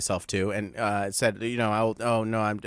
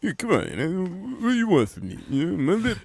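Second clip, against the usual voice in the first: bad Southern accent; 4 semitones higher than usual. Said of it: "worst Southern accent I've ever heard".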